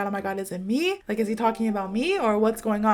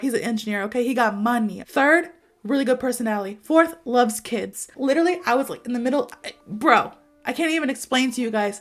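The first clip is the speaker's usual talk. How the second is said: ordinary talk, nothing marked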